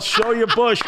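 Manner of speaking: high mock holler; retold yell. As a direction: call it out as dad did, amused. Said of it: "And he yelled".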